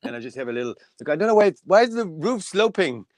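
high-pitched, eager puppet character; puppet self. Pretend. Puppet telling the interviewer about its house, high puppet voice.

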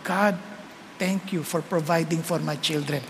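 soft, low prayer of thanks; whisper-soft gratitude to God; grateful quiet prayer; hushed thanks. Retold or imitated. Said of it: "Sabi ko".

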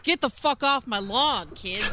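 lightly hammed-up get-off-my-property scolding; mock cranky yell. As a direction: play at chasing kids away, slowly. Acting cranky old man chasing kids.

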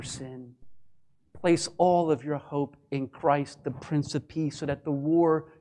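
quiet altar call; gentle invitation. Acted. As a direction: plead tenderly with the listener.

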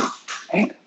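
breathy, voiceless "oh, man"; deflated sigh. Retold or imitated. Hearing he lost to a Russian playing Koshkin, muttered under the breath. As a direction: let it out under your breath like a defeat. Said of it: "I was like".

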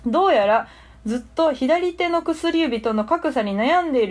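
lightly voiced old sage; a hint of an ancient hermit; wise old hermit. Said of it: "キャラはすごい守ってらっしゃいました".

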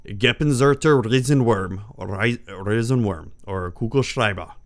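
German card name, gamely attempted; attempted German pronunciation. Shown as a demonstration. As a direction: have a go at the German words. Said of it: "do my best to pronounce it by its German".

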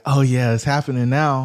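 laughing through "it's happening now"; gleeful. Retold or imitated. Watching the builder drive off, laughing to himself. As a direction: chuckle while savoring the win. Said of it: "I'm sitting there like".

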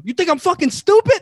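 high, loud retold challenge; mock indignant guard. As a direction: imitate the guard scoffing at an excuse. Retells guard rejecting his protest.

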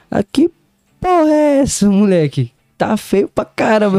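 high-pitched disbelieving mother's outburst; shocked mom. Retold or imitated. Mother shocked by her son's new veneers, high-pitched scolding. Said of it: "minha mãe olhou assim pra minha cara".

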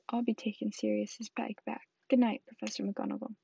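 muffled into a handkerchief. Acted. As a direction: speak through a hanky. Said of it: "in a very muffled voice".

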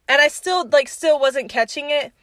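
normal talking voice

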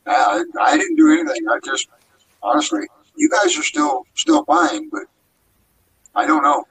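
high, distorted robotic voice. Real, not acted. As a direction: talk like into a spinning fan. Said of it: "yeah, it's not stopped".

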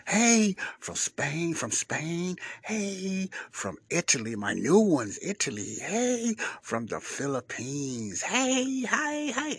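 high, loud, excited hey calls; excited shout-outs. Acted. Host shouting greetings to his listeners abroad. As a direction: greet each country loudly and gleefully.

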